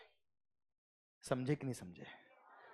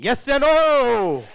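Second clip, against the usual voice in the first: loud, drawn-out call to the class; 7 semitones higher, 8 dB louder, much slower than usual. Real, not acted. Teacher shouting to students for a reply, slow and loud. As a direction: stretch it out and shout for an answer.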